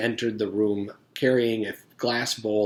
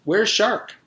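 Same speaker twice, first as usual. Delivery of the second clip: alarmed; 10 semitones higher, 4 dB louder than usual. Acted. Alarmed question.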